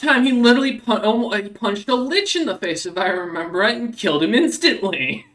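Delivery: high, loud, breathless-with-awe retelling; excited fan recounting a feat; excited recollection. Real, not acted. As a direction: gush about a legendary feat, starting loud. Excitedly recalling hunter's famous punch.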